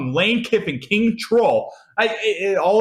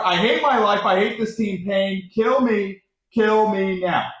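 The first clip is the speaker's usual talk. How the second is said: higher, hammed-up plea of misery; mock despair; 3 semitones higher, slower than usual. Fan rereading his messages about the team, mock despair. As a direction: read it out as overplayed anguish.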